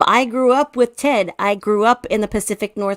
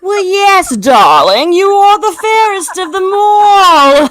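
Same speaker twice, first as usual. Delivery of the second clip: laughing; 9 semitones higher, 12 dB louder, slower than usual. Pretend. Mock queen answers fairest question.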